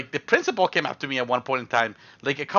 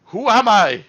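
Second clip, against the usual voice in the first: high, loud stunned question; shocked Pikachu face; 6 semitones higher, 7 dB louder, slower than usual. Retold or imitated. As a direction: ask it open-mouthed, in mock shock. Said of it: "with a Pikachu face".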